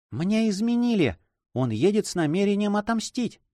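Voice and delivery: high, anguished outcry of betrayal; despairing cry. Acted. Wife crying out to her brother in despair. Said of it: "вскричала молодая женщина в отчаянии".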